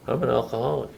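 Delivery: a reluctant, unconvinced "I'm an alcoholic"; half-hearted admission. Retold or imitated. A newcomer grudgingly admits it to his sponsor, half-hearted. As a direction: mumble it without meaning it. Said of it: "Well, say it like you mean it".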